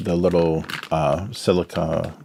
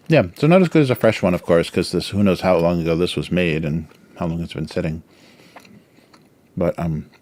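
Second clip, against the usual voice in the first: mouth full. Real, not acted. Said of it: "talking a lot more with my mouth full".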